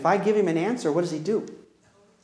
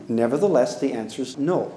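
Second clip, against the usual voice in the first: firm deflection; 7 semitones lower than usual. Shown as a demonstration. Parent deflecting with fixed answer.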